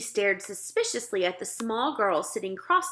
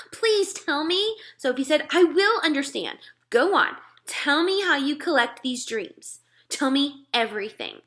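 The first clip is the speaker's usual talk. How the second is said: put-on higher, eager little girl; pleading girl; 6 semitones higher, 4 dB louder than usual. Sophie begging the giant to tell, eager plea. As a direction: coax the secret out of him.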